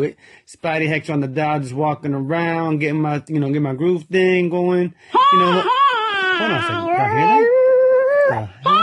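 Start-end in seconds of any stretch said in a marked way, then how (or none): 5.3-8.8 much higher, louder startled yelp; surprised. Real, not acted. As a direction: jump in pitch at a strange sound. Hears a squirrel singing.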